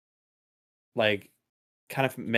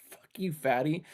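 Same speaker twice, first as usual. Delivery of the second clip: only a mild mock yell, a touch higher; a quieter retelling of the yelled insult; retold insult; 5 semitones higher, 4 dB quieter than usual. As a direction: toss the insult off lightly. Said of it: "the other guy in the other car is like".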